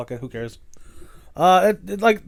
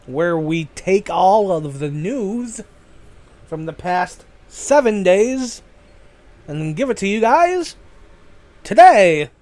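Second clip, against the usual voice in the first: slow announcer read building to a much louder finish; drawn-out show intro swelling louder; 6 dB louder than usual. Shown as a demonstration. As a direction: hype up the segment intro, landing big on today. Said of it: "The segment is titled".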